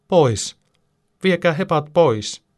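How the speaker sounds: put-on high, loud little-girl cry; wailing shout. A narrator's reading. Little Karoliina on the rock fears the cows, wailing shout. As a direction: shriek it like a scared small child. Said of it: "Hän huutaa".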